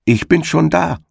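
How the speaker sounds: high calling voice of the hedgehog's wife; triumphant call down the field. A narrator's reading. Hedgehog's wife calls to the hare, high and triumphant. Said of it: "rief ihm die Frau des Igels entgegen".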